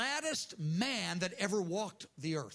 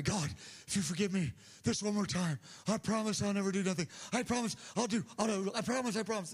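mock pleading prayer; faster than usual. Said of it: "here's how these kind of people pray".

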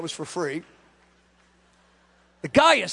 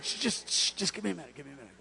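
whispered shush, much softer; soft retold whisper to the wife; hushing; 6 semitones lower, 13 dB quieter, faster than usual. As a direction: hush her while praying. Hushing wife during prayer.

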